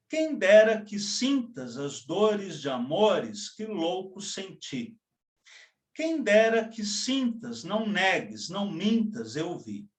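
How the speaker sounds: lingering lyrical reading; poem recital. Acted. Teacher closing the poem for students, lyrical recital. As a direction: let the verses sway like a waltz.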